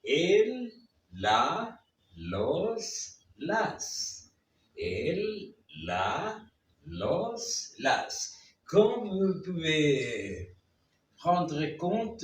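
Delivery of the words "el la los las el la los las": el, la, los, las one at a time with pauses; pronunciation demo. Shown as a demonstration. Teacher models Spanish articles for learners, careful pronunciation demo. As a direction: say "elle, la, los, las" as separate model words. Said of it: "Je vais vous prononcer".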